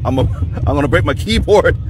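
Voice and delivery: laughing and fast; raging gamer. Real, not acted. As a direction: giggle through the threat. Frustrated gamer building to rage.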